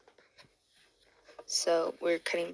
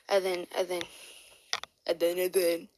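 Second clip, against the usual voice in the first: stumbling, repeated false starts; real verbal stumble while hunting for words; stuttering. Real, not acted. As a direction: keep restarting the phrase, tripping over it. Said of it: "oh my god, I keep stuttering".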